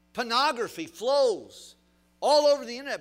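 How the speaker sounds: pastor lifting his voice against pornography, shouting; preaching shout. Real, not acted.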